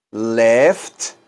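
"Left" with both the F and the final T sounded clearly; careful left. Shown as a demonstration. Teacher to class, modelling "Left" with a crisp final T. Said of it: "Pronuncien bien toda la palabra left".

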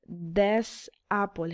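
"This apple" stretched out very slowly, with stress on "This"; teacher slowing "This apple" down so the class can hear it; drawn-out model of "This apple"; slow demo. Shown as a demonstration.

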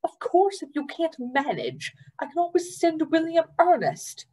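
high, snappish challenge; Trotter snapping. Acted. Trotter snapping a dare at Gilly, sharp. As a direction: snap a dare at her. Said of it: "Trotter snapped".

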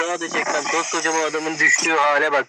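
high helium-squeaked voice. Real, not acted. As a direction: speak high, a bit squeaky. After helium inhale. (helyumlu ince ses)

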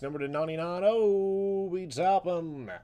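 excited card-break hype call; sports-announcer style reveal. Acted.

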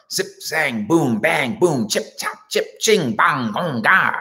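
rapid nonsense syllables, tossed off; mock gibberish. Host rattling off nonsense words about organization. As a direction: rattle off fake noise words playfully. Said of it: "I was speaking Mandarin Chinese".

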